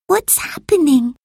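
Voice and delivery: put-on high girl's voice mid-yawn. A narrator's reading. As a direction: ask it while yawning. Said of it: "asked Camilla, yawning".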